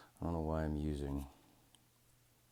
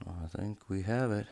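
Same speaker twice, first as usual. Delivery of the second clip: hopeful; 4 semitones higher, 4 dB louder than usual. Real, not acted. First take before excited repeat.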